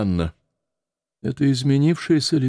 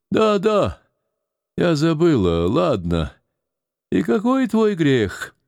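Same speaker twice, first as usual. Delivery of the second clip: agitated; 8 semitones higher than usual. Acted. Старуха взволнованно отвечает.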